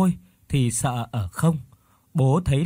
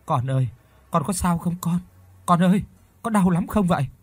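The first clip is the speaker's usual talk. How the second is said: higher-pitched worried mother; anxious concern; 5 semitones higher than usual. A narrator's reading. Mother asking her beaten son if it hurts, anxious and higher. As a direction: fuss anxiously over a hurt child.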